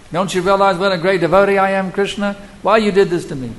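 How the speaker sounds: high, loud, whining complaint to God; indignant devotee. Retold or imitated.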